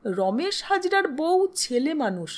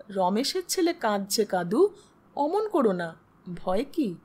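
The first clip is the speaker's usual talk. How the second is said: soothing; 3 semitones lower than usual. Acted. Husband soothes his frightened wife.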